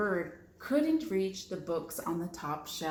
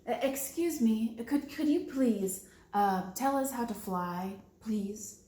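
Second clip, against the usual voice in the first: very polite. Acted. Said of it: "asked Pigeon very politely".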